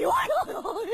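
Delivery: giggling outcry; laughing. Acted. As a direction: crack up at the joke. Wife laughs at own joke.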